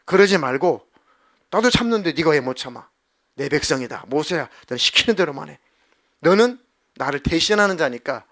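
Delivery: loud scolding from above; stern rebuke. Acted. God rebuking Moses, loud and stern. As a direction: scold him firmly as God. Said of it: "모세를 막 책망하".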